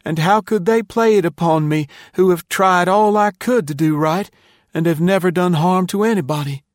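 put-on high, loud, wronged boy pleading his case; impassioned high-voiced appeal; feeling, wounded protest. A narrator's reading. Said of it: "then said, feelingly".

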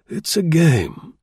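officer savouring the word; military officer. A narrator's reading. Colonel voiced by narrator.

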